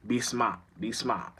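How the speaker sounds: a light Boston accent on "smart". Shown as a demonstration. Trying out the local accent for listeners, Boston accent. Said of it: "That's how it's a Boston accent".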